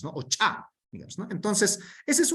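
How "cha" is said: "cha" with the Aymara ch absent from Spanish; Aymara phoneme demo. Shown as a demonstration. Lecturer giving another sound Castilian lacks, Aymara pronunciation. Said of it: "ese fonema chu, digamos".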